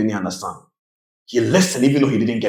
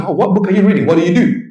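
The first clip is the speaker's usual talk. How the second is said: curious millionaire; 7 semitones higher, 4 dB louder, faster than usual. Retold or imitated.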